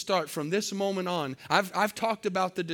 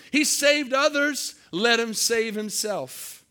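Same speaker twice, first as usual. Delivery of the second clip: high, slow, loud jeering sneer; mocking taunt; 4 semitones higher, 5 dB louder, slower than usual. Preacher voicing the crowd taunting Jesus, loud mocking jeer. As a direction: taunt him like the crowd at the cross. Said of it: "They're mocking him".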